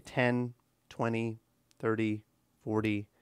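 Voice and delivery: "ten, twenty, thirty, forty" counted low with a pause after each; "ten... twenty... thirty... forty", low, separate beats; counting by tens. Shown as a demonstration. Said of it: "learn how to count by tens".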